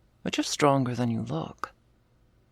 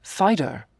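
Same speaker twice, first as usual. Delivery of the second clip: sharp exclamation; 7 semitones higher, 4 dB louder than usual. Acted. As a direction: call out sharply, higher and louder. Scolding the listener for interrupting.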